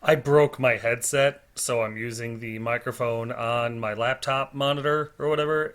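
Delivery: distorted laptop mic sound; fuzzy, distorted cheap microphone; fuzz distortion. Real, not acted. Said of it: "if I sound a little distorted or quiet".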